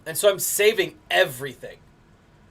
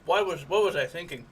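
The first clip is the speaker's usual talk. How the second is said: talking around ice in the mouth; 3 semitones higher than usual. Real, not acted. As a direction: mouth full of ice, words muffled. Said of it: "Now I've got ice in my mouth".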